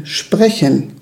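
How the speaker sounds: "Sprechen" as a low, measured one-word emphasis; stress on SPRECHEN. Real, not acted. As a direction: say "Sprechen" alone and deliberately, weight on it without raising the voice. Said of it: "die Betonung liegt auf Sprechen".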